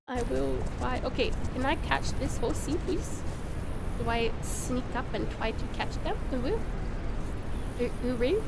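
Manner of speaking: attempted British mum with babyish w-for-r sounds; British uwu baby-talk mum. Streamer doing requested redeems, British uwu baby-talk voice. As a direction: mix a British accent with cutesy baby talk. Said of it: "while I'm doing uwus and mum voices".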